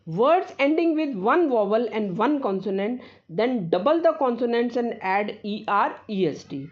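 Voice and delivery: slow, careful reading of a rule; slow dictation. Acted. Teacher dictating a grammar rule to students, slow and careful. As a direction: read the rule slowly so students can copy it.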